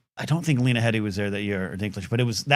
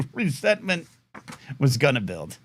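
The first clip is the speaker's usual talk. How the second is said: laughing, ominous echo of the phrase; mock-menacing repeat; 3 dB quieter than usual. Shown as a demonstration. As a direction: say it again like a dark movie trailer line.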